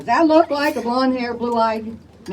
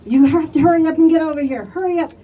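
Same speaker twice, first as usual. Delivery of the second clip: fast, raised, urgent coworker on the phone; urgent warning; 5 semitones higher, 4 dB louder than usual. Retold or imitated. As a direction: rush it out like an alarm.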